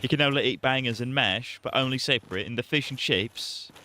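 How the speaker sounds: half British, half Irish dad; an outraged British father, hammed up; a muddled British-Irish accent; mock British accent. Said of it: "half British".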